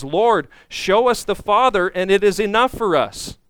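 lightly acted demand. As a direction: press the request as a demand. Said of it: "and he demands".

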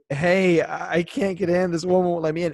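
a delivery man who can't get in, pleading; exasperated courier calling up; frustrated delivery guy. Retold or imitated. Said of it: "call up and say".

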